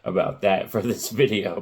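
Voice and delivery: real cracks in the voice, laughing at it; voice cracking. Real, not acted. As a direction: apologize through a cracking voice. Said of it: "I just noticed my voice is cracking".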